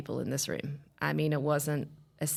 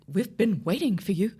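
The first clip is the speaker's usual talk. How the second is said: eager greeting; 6 semitones higher, 6 dB louder than usual. Retold or imitated.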